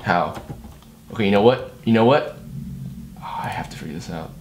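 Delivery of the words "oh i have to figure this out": fast frustrated whisper to himself. Real, not acted. Stuck on a broken plugin, whispering to himself. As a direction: hiss it under your breath.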